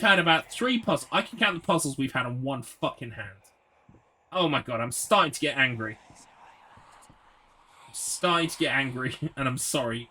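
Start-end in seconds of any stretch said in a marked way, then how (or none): 4.3-9.2 whispered through rising annoyance, drawn out slowly; frustrated whisper. Real, not acted. Streamer confessing to viewers he's getting angry, whispered. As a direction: hiss it slow under your breath, holding the anger in.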